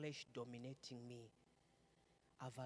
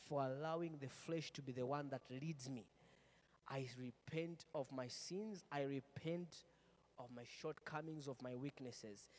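leading a prayer; 3 dB louder than usual. Shown as a demonstration. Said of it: "Just say".

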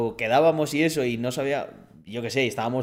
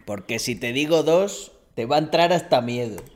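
viking character impression. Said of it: "Y era del tío este".

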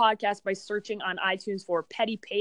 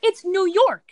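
mock exasperated retort; 9 semitones higher, 4 dB louder than usual. Retold retort to coworker, high loud.

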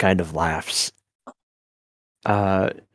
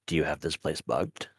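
hushed and wary, much softer; 5 semitones lower, 10 dB quieter than usual. Acted. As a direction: whisper the suspicion. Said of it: "she looks around like".

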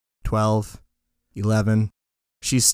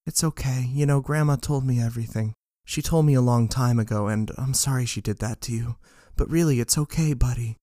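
reassuring; 3 semitones higher than usual. Acted. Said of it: "My friend says to my back".

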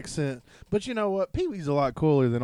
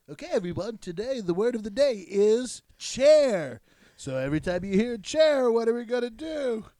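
Pee Wee Herman; 7 semitones higher than usual. Acted. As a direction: announce it to the children in a high voice. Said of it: "like on Pee Wee's Playhouse, he'd be like".

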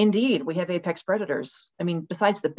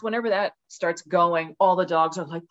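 normal talking voice

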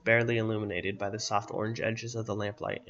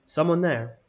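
put-on raspy old man calling out, higher and louder; 6 semitones higher, 6 dB louder, slower than usual. A narrator's reading. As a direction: call warily into the dark as a raspy old man. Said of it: "the raspy voice of the man".

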